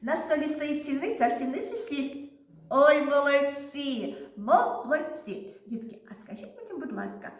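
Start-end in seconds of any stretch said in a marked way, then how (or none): 0.0-2.3 quick tongue-twister run; fast. Shown as a demonstration. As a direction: rattle it off quickly. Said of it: "А тепер швидко".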